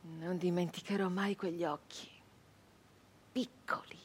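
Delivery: soft, half-whispered memory; hushed dread. A narrator's reading. Narrator recalling the master's eyes, hushed and haunted. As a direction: barely voice it, haunted.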